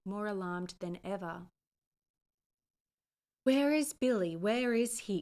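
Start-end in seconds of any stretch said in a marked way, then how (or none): 3.4-5.2 high, loud, frantic Irish cry; frantic Irish mother calling out; breathless cry. A narrator's reading. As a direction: demand where her boy is. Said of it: "cried the mother, nearly breathless".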